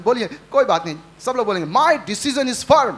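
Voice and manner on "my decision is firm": slow declaration. Shown as a demonstration. Preacher leads congregation in declaration.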